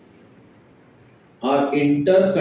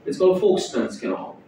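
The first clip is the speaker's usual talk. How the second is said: South Bombay accent; 4 dB quieter than usual. Shown as a demonstration. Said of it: "The South Bombay accent".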